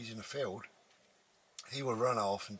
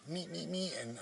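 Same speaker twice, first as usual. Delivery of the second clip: dog dream whimper; 7 semitones higher, 4 dB quieter than usual. Retold or imitated. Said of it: "You don't say meet, that's just me".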